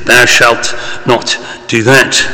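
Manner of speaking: slow, solemn biblical intoning; old-fashioned commandments. Retold or imitated. Preacher quoting the Commandments to the congregation, slow solemn biblical tone. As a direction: read it out like the stone tablets, slowly. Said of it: "use the old-fashioned language and say".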